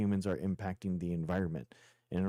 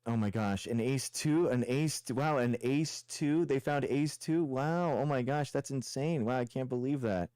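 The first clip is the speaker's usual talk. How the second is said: higher, slowed mock wonder; sarcastic amazement; 3 semitones higher than usual. Real, not acted. Streamer mocks opponent's ace two claim with fake awe. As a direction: fake being dazzled to mock him.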